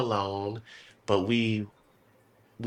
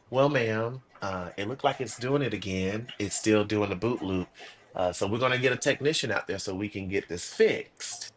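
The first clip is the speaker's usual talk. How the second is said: calm; 3 semitones lower than usual. Retold or imitated. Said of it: "this is how I said it".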